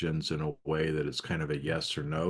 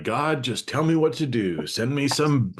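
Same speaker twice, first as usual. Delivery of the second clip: mock plea to God; 9 semitones higher, 9 dB louder than usual. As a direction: ham up a desperate prayer for a sign. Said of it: "you can't be like".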